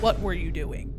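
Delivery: pressed, accusing question; teasing aggressive demand; mock aggressive. Shown as a demonstration. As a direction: demand it playfully fierce. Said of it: "So aggressive".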